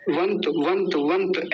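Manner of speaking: वंत ending on a cut-off half त; half final consonant. Shown as a demonstration. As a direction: say वंत with no vowel after the त. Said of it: "ऐसे ही रखेंगे क्योंकि त आधा है".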